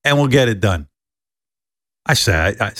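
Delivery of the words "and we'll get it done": lightly voiced confident producer. Producer friend reassuring him.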